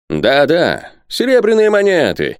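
high, fervent professor; heated eagerness. A narrator's reading. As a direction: press the demand with rising heat. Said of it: "продолжал профессор с горячностью".

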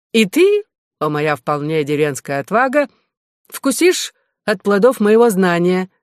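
mildly affected English gentleman, pitch leaping on key phrases; lightly voiced fencing dandy with swooping emphasis; жеманный щёголь-фехтовальщик. (слегка жеманная, манерная речь рыцаря)

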